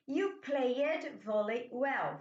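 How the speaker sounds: slow, careful classroom reading; slow model sentence. Shown as a demonstration. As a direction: model it slowly for students. Teacher models English sentence. (leitura lenta de exemplo)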